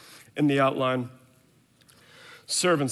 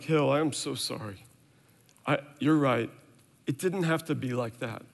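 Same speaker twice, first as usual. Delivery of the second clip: softer, gentle and sorry; sincere apology, retold; 3 dB quieter than usual. Dad apologizing to his son after yelling, soft and sincere. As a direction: speak softly to make it right.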